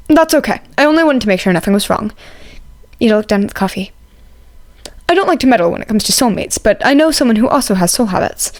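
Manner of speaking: polite classmate. Acted. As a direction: ask politely to join the table. Ida reassures Todoroki.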